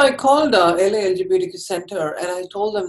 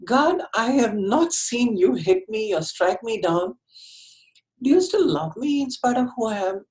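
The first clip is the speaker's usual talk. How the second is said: quiet prayer; 4 semitones higher than usual. Retold or imitated. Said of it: "thinking to myself".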